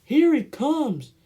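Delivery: high, loud, slow shout; little boy shouting. Acted. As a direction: call out like an excited little boy. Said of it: "a little boy shouted".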